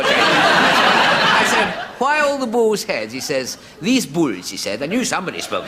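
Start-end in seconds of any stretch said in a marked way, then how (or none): 2.0-3.1 high, slow put-on Spanish accent; mock Spanish accent. Comic repeating his question to the barman, in a mock Spanish accent. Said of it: "what am I talking like that for". 3.8-4.5 put-on Spanish waiter accent; mock Spanish barman. Barman answering the comic, in a mock Spanish accent. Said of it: "I sound like a waiter on the Golden Egg".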